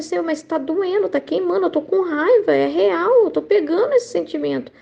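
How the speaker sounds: retold distressed prayer. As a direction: recount complaining to God that it hurts. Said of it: "eu tava chorando, tava nervosa". (prece aflita recontada, mais aguda)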